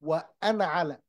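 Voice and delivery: وأنا with a short na before على; just noon with fatha. Shown as a demonstration. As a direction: link وأنا على, no alif sound in وأنا. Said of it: "just the noon with fatha".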